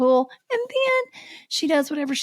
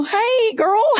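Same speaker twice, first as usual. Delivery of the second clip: mock friendly greeting; 12 semitones higher, 4 dB louder than usual. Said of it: "come up to me and go".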